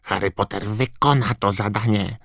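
high, squeaky elf urging; croaking house-elf. A narrator's reading. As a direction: squawk like an urgent house-elf. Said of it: "zaskrzeczał Zgredek". (skrzeczący, wysoki głos skrzata)

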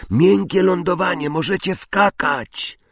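high-pitched call to friends above. A narrator's reading. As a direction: call up the shaft, stretching the last word. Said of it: "krzyknął w stronę jasnego kwadracika".

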